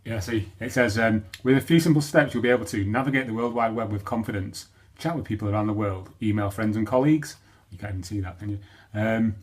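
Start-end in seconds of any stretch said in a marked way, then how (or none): 1.4-7.4 louder, livelier read-out voice; reading promotional blurb. Acted. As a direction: read the sales copy out with a push. Reads out promotional blurb from screen.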